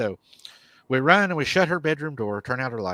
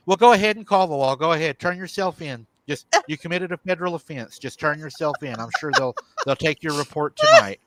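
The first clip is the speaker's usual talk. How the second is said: mildly heated, higher retold rant; going off on him; 3 semitones higher, 5 dB louder than usual. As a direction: lightly act out an angry wife's challenge. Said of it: "Stephanie starts going off on me".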